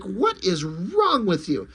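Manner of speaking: slow, exasperated demand; indignant interruption. Acted. Superman interrupts the wizard, indignant. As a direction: lean on each word in disbelief. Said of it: "Superman interrupts".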